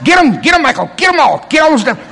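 hammed-up excited urging; mock cheering on. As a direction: egg him on like a scared fan. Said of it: "little scared sheep, going".

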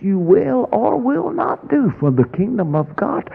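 preaching climax. Acted. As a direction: build the rebuke to a shout. Climax of rebuke.

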